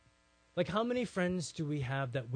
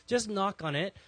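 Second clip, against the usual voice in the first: louder, higher, pushing the order; insistent command; 6 semitones higher, 5 dB louder than usual. Retold or imitated. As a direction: repeat the order with force. Same instruction repeated, insistent.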